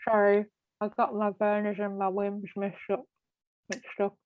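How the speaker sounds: talking with a pen in her mouth; words garbled around a pen in her teeth. Real, not acted. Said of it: "she has a pen in her mouth".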